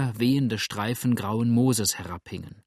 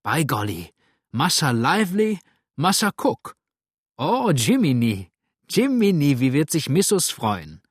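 higher and louder joyful cry; jubilant shout; 3 semitones higher, 6 dB louder than usual. A narrator's reading. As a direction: shout with delight at old friends. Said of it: "rief jauchzend".

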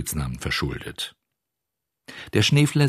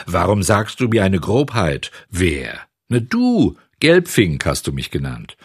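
mild quarrel; 2 semitones higher, 3 dB louder than usual. Acted. Acted quarrel of two old men.

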